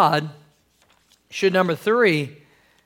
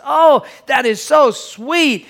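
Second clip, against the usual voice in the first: higher, slow, drawn-out gushing; touched wife; 5 semitones higher, slower than usual. Acted. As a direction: coo it slowly as a touched wife.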